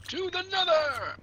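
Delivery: high rallying cry; shout. Acted. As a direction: yell it like a battle cry.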